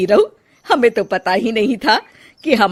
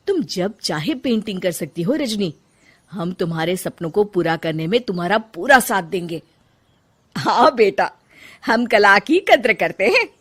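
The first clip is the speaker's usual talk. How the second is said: softer, gentle and reassuring; 2 semitones lower, 4 dB quieter than usual. Acted. Mother-in-law comforting her bahu about painting, gently reassuring. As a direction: comfort her and promise support.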